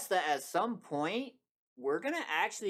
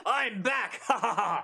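dark lord; 4 semitones higher, 3 dB louder than usual. Pretend. Villain returns and gloats.

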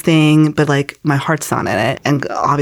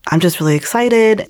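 retold excitement; 2 semitones higher than usual. Telling mom she gave her life to the Lord, retold excitement. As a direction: recount gushing to mom, lightly. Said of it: "I was so excited".

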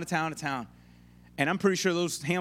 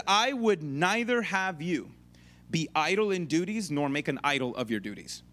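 quoting a Puritan; 3 semitones lower than usual. Retold or imitated. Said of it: "He says".

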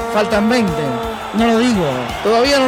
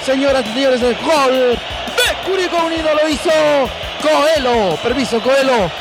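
frenzied play-by-play goal call; goal commentary. Acted. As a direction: chant the goal, full fervour. Radio goal call clip.

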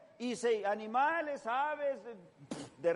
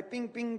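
violin plucking noises; 3 semitones higher, 3 dB quieter than usual. Retold or imitated. Imitates violin being tuned.

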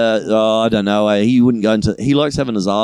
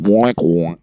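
wonk sound effect; 4 semitones lower than usual. Retold or imitated. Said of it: "Sound effect".

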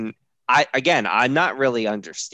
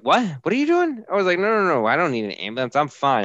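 raised, hurried mock protest; retold alarmed protest; 8 semitones higher, 5 dB louder, faster than usual. Husband waking to find ambulance called, mock-alarmed protest. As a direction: act out startled objection, starting very high.

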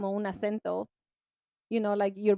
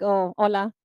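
lower, deeper hola; low Spanish voice; 3 semitones lower, 4 dB louder than usual. Shown as a demonstration. Host showing her deeper Spanish voice. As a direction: drop into her Spanish register. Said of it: "that's how I talk in Spanish".

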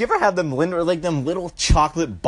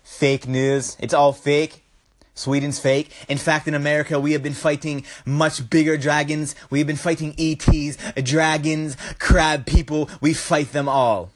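Trump impression; 6 semitones lower than usual. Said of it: "I can't do a Trump impersonation".

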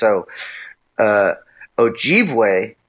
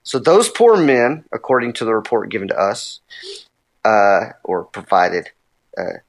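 reading a quote. Acted. Reads a Jesuit quote.

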